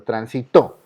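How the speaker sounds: "transitó" said tran-si-TÓ, stress at the end; acento agudo. Shown as a demonstration. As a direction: hit the final TÓ of "transitó". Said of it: "la fuerza". ("transitó" acentuado en la última sílaba, TÓ)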